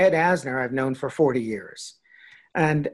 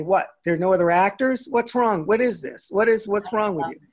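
mock outrage; 6 semitones higher than usual. Mock outrage letter to Asner.

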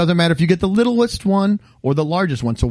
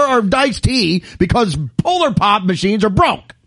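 rising into a lively rant; mock ranting; 3 semitones higher than usual. Real, not acted. Ranting to friends, mock outraged. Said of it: "good rant".

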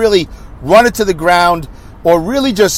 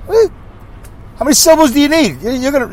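exasperated; 9 semitones higher, faster than usual. Real, not acted. Exasperated rant about names.

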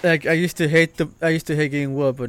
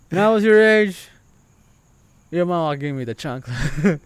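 mock parent lecture; 4 dB louder than usual. Mocking parent's old line.

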